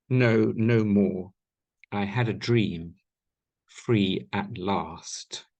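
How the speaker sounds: measured, slow poetry recital with weighty pauses; poem reading. Acted. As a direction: let each word land, grim and solemn. Reads his own poem.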